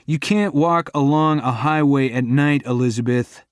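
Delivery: worried but firm; sharp. Acted. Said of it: "My voice is sharp".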